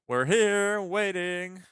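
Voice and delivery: high, drawn-out acted call; sing-song high character voice. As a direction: pitch it way up into a sing-song announcement. Acted phone call to Penny.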